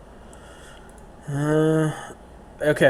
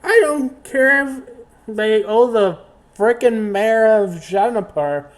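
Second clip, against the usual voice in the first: higher, heated captain threatening; mild heated threat; angry threat; 4 semitones higher than usual. Acted. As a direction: threaten to blow a hole.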